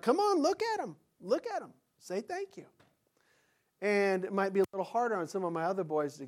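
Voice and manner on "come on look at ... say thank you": much higher, coaxing father urging his son; father coaching his shy son to look up and say thanks; insistent father. Retold or imitated. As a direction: push the boy to say thank you. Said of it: "I'd be like".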